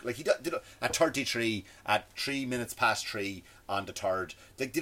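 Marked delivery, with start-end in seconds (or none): 0.8-4.3 slow Irish accent, "three" as "tree"; exaggerated Irish accent. Shown as a demonstration. Mocking friends copying his accent, slow, hammed-up Irish. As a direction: lay the Irish accent on "thirty-three" and "third". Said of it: "do the accent to repeat".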